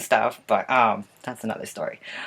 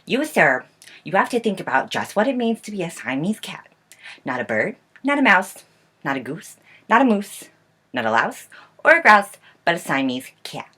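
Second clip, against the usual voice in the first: scolding mother; 4 semitones higher than usual. Acted. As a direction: scold like a fed-up mom listing what he isn't. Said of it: "she's over there scolding him".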